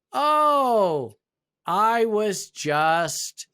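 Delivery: a drawn-out, sheepish "oh, I was just"; sheepish excuse. Retold or imitated. Manager caught out, stalling to the HR director, sheepish and drawn out.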